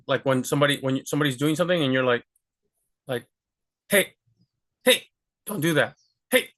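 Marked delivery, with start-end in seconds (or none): 3.9-6.5 "Hey" cut off short, tensed from the gut; short sharp hey. Shown as a demonstration. Teacher showing students a sharp cut-off "Hey". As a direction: snap out "Hey" and stop dead. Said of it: "short, right?".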